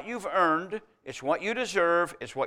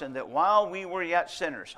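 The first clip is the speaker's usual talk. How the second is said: "sinners" given clear emphasis; stress on sinners; 2 semitones higher than usual. Shown as a demonstration. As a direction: make "sinners" the point of the phrase. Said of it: "I stress that sinnership again".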